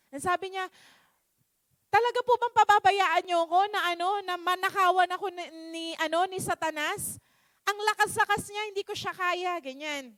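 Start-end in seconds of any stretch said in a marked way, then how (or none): 1.9-9.5 lightly indignant, pleading protest; mildly angry complaint. Acted. Man feeling abandoned to Satan, mildly angry. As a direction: complain with a touch of anger. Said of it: "nagalit na siya kay Jesus".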